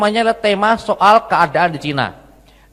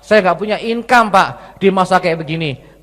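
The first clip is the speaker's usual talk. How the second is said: confused, worried complainer; 5 semitones higher than usual. Acted. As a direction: plead as a worried follower. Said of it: "Anda merasa".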